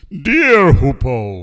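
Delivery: loud, slow, stretched royal address; grand announcement. Acted. Smiling king addresses hoopoe, announcing loudly. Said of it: "he announced".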